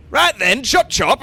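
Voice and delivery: high, loud chivvying; brisk hurrying-up. Acted. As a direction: snap him out of it. Barden hurries the stunned brewer.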